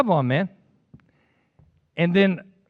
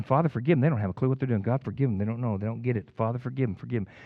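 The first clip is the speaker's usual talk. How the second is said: hushed prayer of Jesus; 4 semitones lower, 6 dB quieter, faster than usual. Acted. Jesus praying on the cross.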